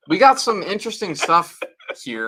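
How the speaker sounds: bright, loud announcer voice, high and hyped; newscaster voice. Acted. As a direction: present it like a TV news anchor. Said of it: "You're in your, like, newscaster voice still".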